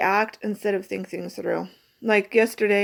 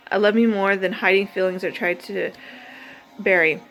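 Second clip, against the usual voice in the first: measured, earnest recital of her poem; deliberate spoken-word affirmation; poem reading; 4 dB louder than usual. Acted. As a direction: read each line like a vow to yourself. Reads her self-love poem.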